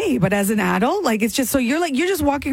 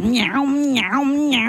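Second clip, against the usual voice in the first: gum smacking noise; much slower than usual. Retold or imitated. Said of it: "chewing gum is like".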